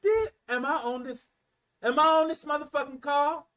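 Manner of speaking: high, incredulous self-questioning; appalled disbelief. Acted. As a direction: act out doubting you're really hearing this. Acted disbelief at being on call.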